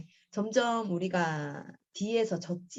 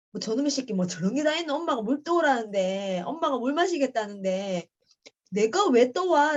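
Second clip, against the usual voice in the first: retold fuming, pitched up toward the end; indignant anger; 3 semitones higher, 4 dB louder than usual. Mother fuming over her son refusing water, indignant anger. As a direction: replay a mother's outrage, building louder. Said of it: "화가 확 나는 거야".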